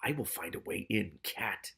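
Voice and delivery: a hint of a faint voice in his head; lightly voiced, distant menace; mild eerie voice. The voice in Morris's head threatening the cat, mildly eerie. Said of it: "And it said".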